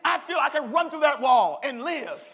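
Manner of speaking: exuberant shout. Acted. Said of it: "You feel".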